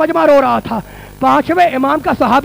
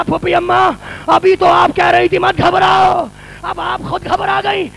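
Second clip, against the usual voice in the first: high, wailing plea to his aunt; Sajjad's wailing plea to his aunt; lamenting nephew's plea; 4 semitones higher than usual. Acted. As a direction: cry out to her in grief. Majlis, Sajjad's plea voiced in lament.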